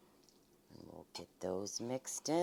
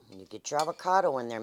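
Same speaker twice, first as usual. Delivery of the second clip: ordinary talk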